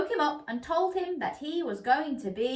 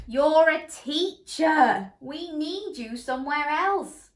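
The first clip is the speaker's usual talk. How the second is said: higher, louder, slow firm words; Mister Pig; 6 semitones higher, 5 dB louder, slower than usual. A narrator's reading. Mister Pig telling Miss Ladybird, higher and louder. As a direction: state it plainly as the pig. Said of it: "said Mister Pig".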